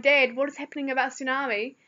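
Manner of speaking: calling out. Retold or imitated. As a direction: call out to Dad in the next room. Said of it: "then I called out".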